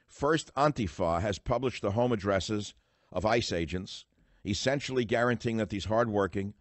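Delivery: emphatic, forceful read-aloud; book reading. Real, not acted. Radio host reading his forthcoming book to listeners, emphatic read-aloud. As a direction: read your own written words out with punch.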